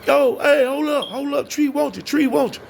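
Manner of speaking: high-pitched urgent holler; retold yelling. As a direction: imitate a friend yelling to stop someone. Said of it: "So he start yelling".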